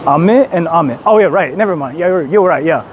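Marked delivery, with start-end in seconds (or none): 0.1-1.0 "Ame and ame" with two different pitch patterns; contrasting pitch accent. Shown as a demonstration. Streamer correcting themselves on meanings, contrasting pitch on "ame". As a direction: set the first "Ame" against the second by pitch. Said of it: "depending on how you, like, pronounce it".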